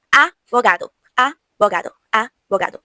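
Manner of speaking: Avogado with a light b, air passing between the lips; soft b. Shown as a demonstration. Teacher modelling the soft b between vowels. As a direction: breathe the b in Avogado softly. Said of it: "uma coisa bem leve".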